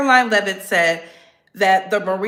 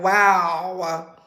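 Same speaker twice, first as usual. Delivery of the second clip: mocking critics; 4 semitones lower, much slower than usual. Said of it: "People are like".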